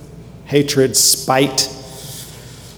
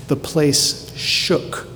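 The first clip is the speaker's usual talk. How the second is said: awed hush; 2 semitones higher, 6 dB quieter, much slower than usual. Acted. Awed hush on the temple shaking.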